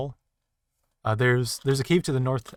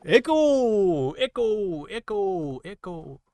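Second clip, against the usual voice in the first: cave echo; 10 semitones higher, 4 dB louder, much slower than usual. Pretend. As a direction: play your own echo dying away. Shouting into the cave, fading.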